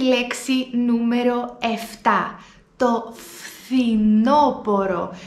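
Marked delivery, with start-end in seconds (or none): 2.8-5.1 φθινόπορο slow, φθ clear; φθινόπορο drawn out; model word. Shown as a demonstration. Teacher shows φθ, slow. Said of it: "ο συνδυασμός αυτών των δύο συμφώνων".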